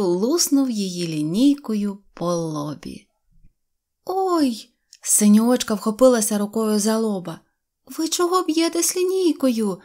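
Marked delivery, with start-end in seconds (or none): 4.0-4.7 high, acted ouch; pained yelp. A narrator's reading. Girl struck on the forehead. 7.9-9.8 put-on high-pitched girl's protest; indignant cry. A narrator's reading. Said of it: "закричала вона".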